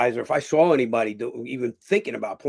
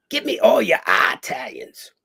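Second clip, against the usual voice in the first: imitated request; 8 semitones higher, 4 dB louder, slower than usual. Director's request, voiced.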